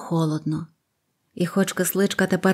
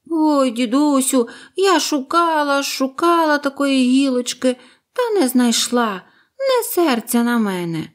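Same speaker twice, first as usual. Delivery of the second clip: high, pleading bird voice; apologetic little bird; 7 semitones higher, 3 dB louder than usual. Acted. Bird pleads with grandfather, high and sorry. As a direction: sweetly beg forgiveness.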